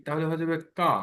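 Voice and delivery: কা said as k plus a long open a; demonstrating the sound. Shown as a demonstration. Teacher showing students how ক with আকার sounds. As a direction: say কা with a clear long a after the k. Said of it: "এই ক এর সাথে যদি আকার দেই".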